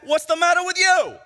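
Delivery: high, loud retort; yelling back. Acted. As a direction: throw the challenge back at full volume. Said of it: "And he yells back".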